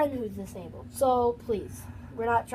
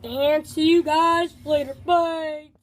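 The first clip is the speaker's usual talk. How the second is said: Donald Duck; 2 semitones higher, 4 dB louder, slower than usual. Pretend. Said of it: "a good Donald Duck impression".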